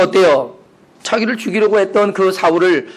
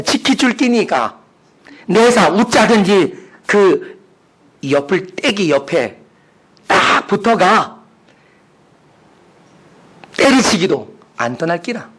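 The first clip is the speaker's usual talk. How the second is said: slow, drawn-out Gyeongsang accent; Gyeongsang dialect; 4 semitones higher, 4 dB louder, slower than usual. Shown as a demonstration. Preacher reading Psalm twenty-three for laughs, Gyeongsang dialect. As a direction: read scripture in broad Gyeongsang dialect, pausing between phrases. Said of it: "제가 한번 경상도 버전으로 읽어드리겠습니다".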